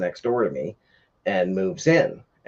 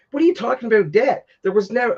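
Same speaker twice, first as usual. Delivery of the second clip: heated yell; 14 semitones higher than usual. Retold or imitated. To the neighbour claiming a debt, incredulous high yell. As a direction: refuse the very idea of a debt. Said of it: "I got pretty heated".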